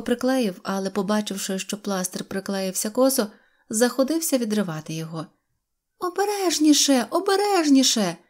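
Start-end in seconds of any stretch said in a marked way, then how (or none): 6.0-8.2 put-on high-pitched girlish pleading; alarmed cry. A narrator's reading. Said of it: "кричала Синьоочка". (стривожений дитячий крик)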